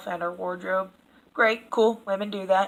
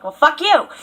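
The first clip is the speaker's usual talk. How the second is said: mock snapped retort, louder and higher; defensive retort; 7 semitones higher, 10 dB louder than usual. Imitating a scolded viewer snapping back, mock angry. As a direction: spit it back, hammed-up defensive. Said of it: "then you get defensive".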